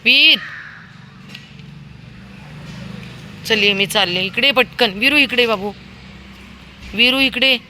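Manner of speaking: loud, high call. Real, not acted. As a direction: call the dog back sharply. Calling dog back.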